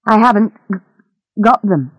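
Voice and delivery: halting denial with a caught word; mildly frightened, broken delivery; nervous stammer. Acted. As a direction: deny it nervously, stumbling mid-phrase. Captive denies having diamonds.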